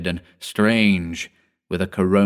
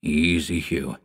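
calming; 4 semitones lower, 4 dB quieter than usual. A narrator's reading. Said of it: "answered Norby to his excited assistant".

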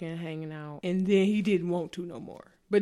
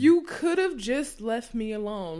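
louder, slow and declared; slow, louder slogan; banner slogan; 4 semitones higher, 5 dB louder, slower than usual. Acted. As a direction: proclaim it like a motto. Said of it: "that's on my rainbow".

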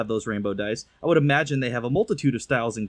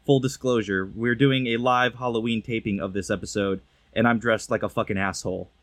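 muffled through mask; 2 semitones lower than usual. Real, not acted. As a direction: voice dulled by a bear mask. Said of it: "if I sound a bit muffled".

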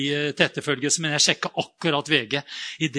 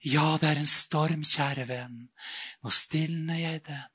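gentle reassuring god voice; 3 dB quieter, slower than usual. Retold or imitated. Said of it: "og liksom".

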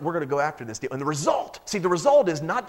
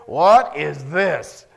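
very slow and louder, puzzled; baffled question; 4 semitones lower, 6 dB louder, much slower than usual. Acted. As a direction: drag it out, staring at the strange stuff. Israelites puzzled by the manna.

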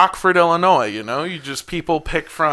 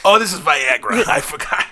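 man doing a woman's voice. Acted. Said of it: "This is a lady's voice".

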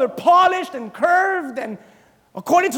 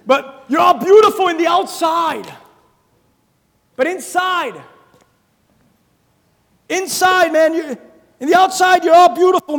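shouted rebuke; 2 semitones higher, 5 dB louder than usual. Acted. Preaching Jesus' rebuke, shouting.

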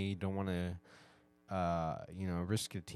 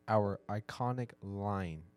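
slow careful retry; much slower than usual. Real, not acted. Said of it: "I can't say this".

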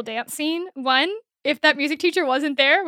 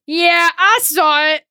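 slow, louder, grumpy yeah; grumpy drunk teen; 3 semitones higher, 8 dB louder, slower than usual. Retold or imitated. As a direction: drag it out sullenly, like a sulky teen. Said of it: "Parker is drunk or angry or something".

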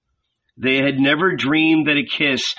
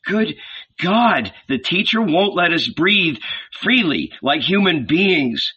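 mock grumble; 4 semitones higher than usual. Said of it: "grumbled Peter".

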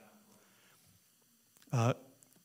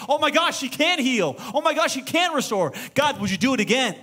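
high, loud awestruck gasps; excited amazement; 9 semitones higher, 4 dB louder than usual. Retold or imitated. Pastor voicing believers amazed at God's deeds, high and loud. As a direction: marvel at God's power, thrilled.

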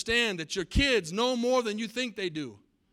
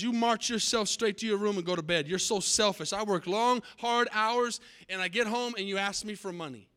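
angry father; 3 semitones higher than usual. Acted. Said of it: "the father flew off the handle".

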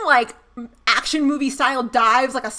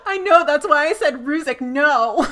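mimicking Roman; 4 semitones higher, 6 dB louder than usual. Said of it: "Roman goes".

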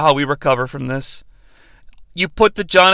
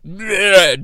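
quick retching noise; comic "bleh" of disgust; mock gagging. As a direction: imitate gagging on a bite. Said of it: "He gags and vomit".

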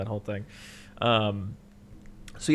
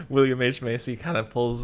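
ordinary talk

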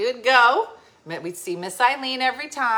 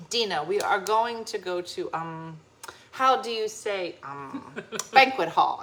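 put-on careful, halting English with a Belgian accent; imitated Belgian accent. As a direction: grope for the English word in a lightly Belgian accent. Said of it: "trying really hard to translate to English".

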